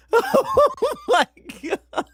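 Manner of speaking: high shrieking oh my God; real shocked shriek. Real, not acted. Streamer shrieking after a horror game scare.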